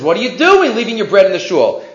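mild mock yell; imitated indignant scolding; retold scream. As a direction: scold him, without really shouting. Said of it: "he starts screaming".

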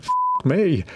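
light Irish accent, imitating a colleague; a hint of an Irish lilt, retold. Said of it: "in his Irish accent".

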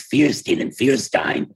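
Fierstein and Fierstein as FEER-steen and FEER-stine; two rival pronunciations. Shown as a demonstration. Baffled by family's surname, Fierstein and Fierstein said as FEER-steen, FEER-stine. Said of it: "they came up with this".

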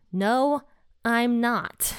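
retold flat-out refusal, each part set apart by a pause; emphatic denial. Peter denying the maid's claim to bystanders, emphatic retold denial.

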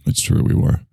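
airy clogged-nose delivery; post nasal voice. Acted. Answering the microphone puppet in a post nasal voice. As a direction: talk as if the nose is blocked. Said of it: "that post nasal".

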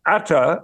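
"Atta" as one word for "art thou"; Yorkshire dialect. Shown as a demonstration. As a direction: run "Atta" together in Yorkshire fashion. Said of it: "art thou".

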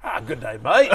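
mock Australian good day, mate; hammed-up Aussie greeting; playful fake Australian accent. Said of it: "if you can speak in an Australian accent".

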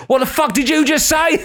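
high-pitched, laughing, half-acted outrage; mock furious retort. Comic retelling Paul McCaffrey snapping at a heckler, laughing mock fury. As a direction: snap back at the heckler through a laugh. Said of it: "Immediately lost it".

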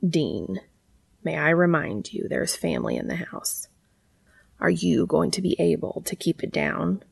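understated, quiet command. Acted. Cass cautions Dean about family in the house, quietly commanding. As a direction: rein him in with quiet authority. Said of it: "finding the sudden tone of command".

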